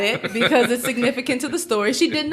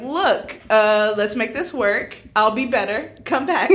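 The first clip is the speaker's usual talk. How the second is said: pleading; 6 semitones higher than usual. Retold or imitated. Pleading friend to come back.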